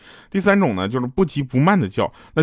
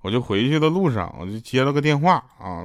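normal talking voice

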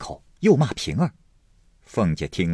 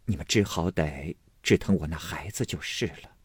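softer, weary lament over dying; sorrowful; 3 dB quieter than usual. Acted. Sick wife telling her household they'd be glad if she died, sorrowful.

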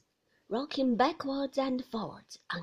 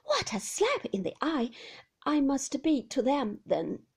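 higher, louder bitter jab; bitter first remark; 3 semitones higher, 6 dB louder than usual. Acted. Wife's first bitter jab at Maxim, lifted and louder. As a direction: throw out the remark, stung. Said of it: "I repeated".

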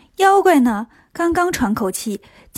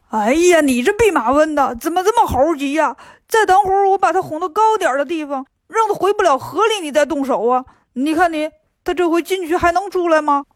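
complaining pig voice, pitched higher; fretful, scolding his hasty brother; whiny Bajie; 3 semitones higher than usual. Acted. Bajie scolds Wukong for scaring off the monster, whining.

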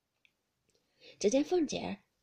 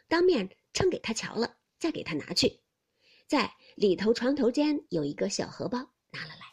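louder, quick commanding lady; brisk mistress orders; 5 dB louder than usual. Acted. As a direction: rattle off the errand. Xifeng giving orders.

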